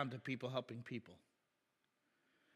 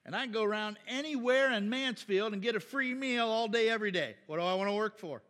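voicing a lazy freeloader, louder and higher as it builds; gloating mock loafer getting louder; 4 semitones higher, 4 dB louder than usual. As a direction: act out the smug freeloader bragging about free meals. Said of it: "Like, hey".

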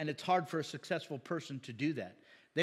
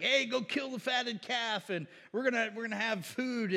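higher-pitched, lightly acted celebrating dad; mock excited father; 6 semitones higher than usual. Dad welcomes the prodigal home with a feast, playfully excited. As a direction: call out the feast like an overjoyed dad.

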